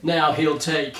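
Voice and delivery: slow, ominous trailer tagline; movie tagline. Acted. Host reading the book's tagline, slow trailer voice. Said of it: "The tagline is".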